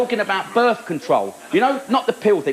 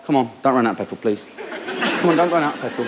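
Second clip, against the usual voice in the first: coaxing the car; 5 semitones lower, much faster than usual. Retold or imitated. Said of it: "say to the car".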